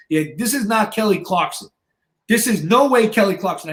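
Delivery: imitating an incredulous gym bro; retold disbelief. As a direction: flatly refuse to believe it. Retold guy refuses to believe it.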